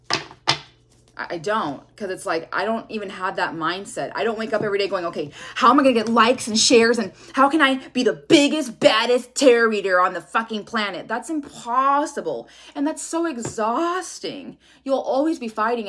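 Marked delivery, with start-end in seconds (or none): 5.1-11.1 louder, pumped-up parody of a clout chaser; mock hype. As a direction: blast it like a try-hard influencer. Mocking a fame-hungry reader.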